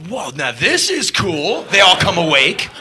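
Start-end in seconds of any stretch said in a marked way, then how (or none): 0.1-1.6 slow, drawn-out impressed whoa; a hint of a waking crowd; mild crowd awe. Crowd waking up to a singer, mild slow awe. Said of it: "everyone in the crowd's going like".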